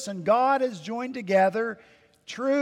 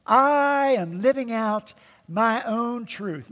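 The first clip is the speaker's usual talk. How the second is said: mocking quote; 3 semitones higher, slower than usual. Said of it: "what does he deceive people into saying?".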